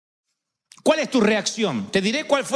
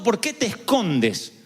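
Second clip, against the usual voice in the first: slow question; slower than usual. Retold or imitated. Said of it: "el Señor preguntó".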